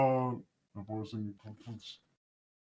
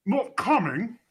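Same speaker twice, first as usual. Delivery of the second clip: chipmunk voice; 7 semitones higher, slower than usual. Real, not acted. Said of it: "earlier you sounded like a chipmunk".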